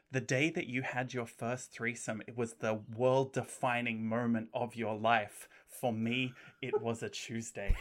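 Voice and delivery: lightly voiced smug arcade villain; a hint of a gloating game boss; M. Bison impression. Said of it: "your best M. Bison impression".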